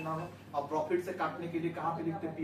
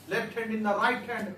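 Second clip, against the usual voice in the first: slow drilled phrase; 3 semitones higher, 4 dB louder, much slower than usual. Shown as a demonstration. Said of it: "teacher repeats phrase".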